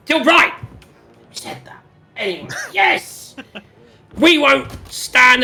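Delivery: excited high NPC. Acted.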